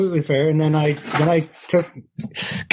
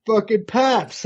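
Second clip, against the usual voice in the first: mock Dave; 7 semitones higher than usual. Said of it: "And he's like".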